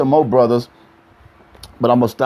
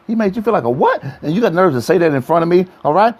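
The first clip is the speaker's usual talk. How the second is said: mock outrage; 5 semitones higher, faster than usual. Playing offended boyfriend.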